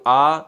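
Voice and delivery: आ held for double length; आ drawn out, twice the short vowel; long vowel demo. Shown as a demonstration. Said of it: "यहां दो गुना समय मैंने कहा ई".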